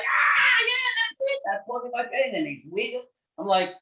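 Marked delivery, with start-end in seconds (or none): 0.0-2.3 sudden high shout of "Ah", then easing down; the patient yelping as the sore spot is found; patient's cry of recognition. Retold or imitated.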